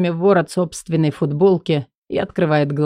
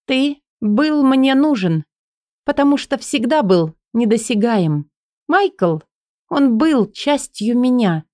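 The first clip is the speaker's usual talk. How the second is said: Элли's voice; 5 semitones higher than usual. Acted. Элли's long speech, higher.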